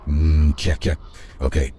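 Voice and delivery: Morgan Freeman voice. Shown as a demonstration. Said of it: "let me just give you a quick preview".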